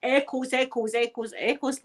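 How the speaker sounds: echoes fading away; mimicking a room echo, fading out; imitating an echo. Shown as a demonstration. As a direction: let each echoes fade like an echo off stone walls. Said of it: "like that".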